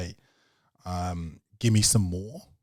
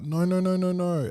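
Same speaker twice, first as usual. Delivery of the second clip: put-on high little kid refusing; toddler refusing; 11 semitones higher, 3 dB louder than usual. Dad imitating toddler refusing the digger. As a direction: pitch way up, whiny no.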